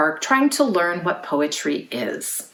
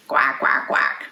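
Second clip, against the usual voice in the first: lower, nasal duck quacks; 5 semitones lower, slower than usual. Shown as a demonstration. Teacher inviting kids to quack, lower duck voice. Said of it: "Can you quack like a duck?".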